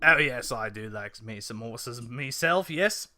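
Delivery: hammed-up Cockney horse lover; amateur Cockney accent; attempted Cockney. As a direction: have a shaky go at Cockney. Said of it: "I was trying to go Cockney".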